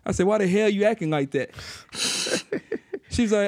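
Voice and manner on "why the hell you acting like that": higher-pitched mock outrage at mom; retold mock indignation. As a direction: act out a prank challenge to mom. Retelling prank cussing at mom.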